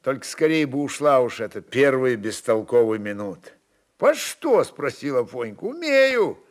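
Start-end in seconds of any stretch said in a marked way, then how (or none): 4.0-4.6 put-on lifted high child's voice; the small son asking, high and eager; boy's question. A narrator's reading. Boy Afonka asks his father, high and eager. 5.6-6.4 put-on high childish answer; a small boy says it brightly; boy's reply. A narrator's reading. Afonka answers his father in a high child's voice.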